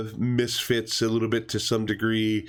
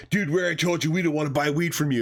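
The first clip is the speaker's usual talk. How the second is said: pitched-up mock hostility; mock aggressive teen; 7 semitones higher than usual. Kid warning off the dealer, mild mock anger. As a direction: snap at him, half-hearted. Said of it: "totally getting aggressive with him".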